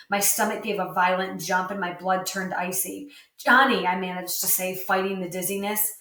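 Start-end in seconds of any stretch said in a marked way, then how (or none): 3.4-3.9 alarmed call. A narrator's reading. Sickened after the stabbing.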